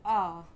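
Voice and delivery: low, distinct "आ"; vowel demo. Shown as a demonstration. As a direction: model the vowel "आ" for learners. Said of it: "कई तरीके से आ का उच्चारण".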